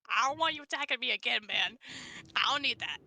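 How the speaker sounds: rushed, annoyed in-character line; fast complaint. Acted. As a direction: blurt it out quickly.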